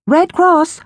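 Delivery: high sweet stranger voice; relentless eerie caller. A narrator's reading. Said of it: "the voice said".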